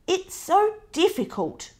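high fretful cry from Mum; worried mum crying out. Acted. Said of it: "cried Mum".

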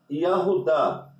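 Yahudá said slowly, each syllable laid out; slow spelled-out name. Shown as a demonstration. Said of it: "Que é Judá".

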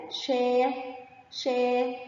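"شا" stretched as a long shaa. Shown as a demonstration. Teacher showing pupils alef lengthening, "شا" drawn out long. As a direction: hold the aa in "شا" on a level note. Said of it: "شين فتحة مد بالألف".

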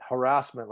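"harassment" said as if almost British; British-sounding harassment. Retold or imitated. Pointing out the English influence in Southie talk, British-sounding "harassment". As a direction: imitate a British-tinged "harassment". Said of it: "like it was British almost".

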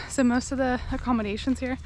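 panting mid-sentence; breathless from the climb; out of breath. Real, not acted. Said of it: "I'm sorry, I'm out of breath".

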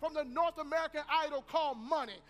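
forceful sermon delivery with stretched key words; emphatic preaching. Acted. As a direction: drive the lesson home to the congregation.

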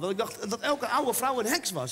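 ordinary delivery

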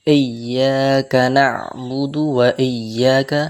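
slow chanted recitation; measured chanted recitation; Quran recitation. Shown as a demonstration. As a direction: recite slowly like tajweed practice. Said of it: "recites Quran verse".

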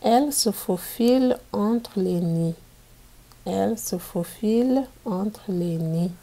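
put-on storybook reading for young pupils; reading to children. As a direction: read it out clearly for a class of kids. Teacher reads picture book aloud.

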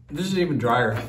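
talking while chewing; words through a mouthful; mouth full. Real, not acted. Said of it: "I'm talking with my mouth full".

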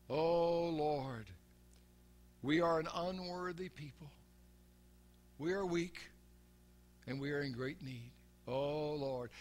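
softly imitating a grovelling preacher's prayer; mock humble prayer. Preacher mocks old-style prayers, a softly imitated grovelling prayer. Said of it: "making this kind of prayer".

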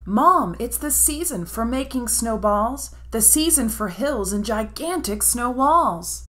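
put-on a keen little girl explaining; eager girl voice.

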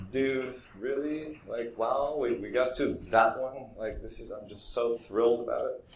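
mock-thrilled sneer at a painting of a house; sarcastic thought. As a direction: roll your eyes at the boring painting. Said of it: "And I'm thinking".

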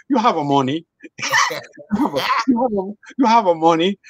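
lightly imitated Dominican girl insisting; mock Dominican accent. Imitating a girl in the Dominican Republic, a light mock accent. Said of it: "I said".

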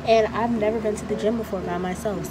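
muffled by surgical mask; talking behind mask; through a face mask. Real, not acted. Seen 1: Surgical mask covers her mouth and nose in every labelled frame.

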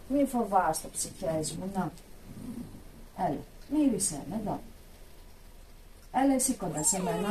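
tender, reassuring coaxing; gentle coaxing. Acted. Inviting the animals to sniff her, gentle coaxing.

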